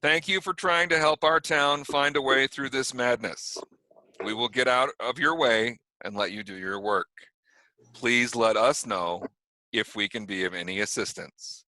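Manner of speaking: put-on sheriff's official address in a New York accent. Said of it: "speaking in a New York accent".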